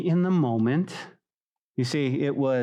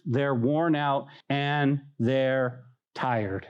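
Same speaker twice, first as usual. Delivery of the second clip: slow and weary; 3 semitones lower, much slower than usual. Real, not acted. Explaining tiredness.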